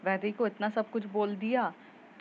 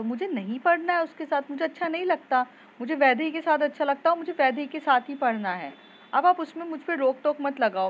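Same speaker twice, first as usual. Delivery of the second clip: higher, louder, shouting back at her mother; angry yelling at mom; 4 semitones higher, 4 dB louder than usual. Acted. Daughter yells at mother over studying with Vaidehi, angry shout. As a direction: snap back at mom in a heated outburst. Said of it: "चिल्ला के बोल देती है".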